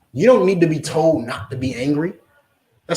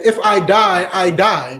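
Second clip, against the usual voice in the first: firm declaration; 2 semitones higher, 4 dB louder, slower than usual. Retold or imitated. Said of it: "she literally said".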